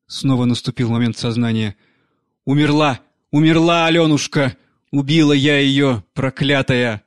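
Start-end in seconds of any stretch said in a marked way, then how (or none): 2.5-7.0 louder, a cry of grief and guilt; a nanny howling her guilt; despairing cry. Acted. Nanny realising she killed her. (громкий крик отчаяния)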